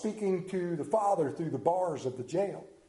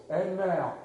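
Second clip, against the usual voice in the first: news anchor voice. Retold or imitated. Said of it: "that authoritative voice".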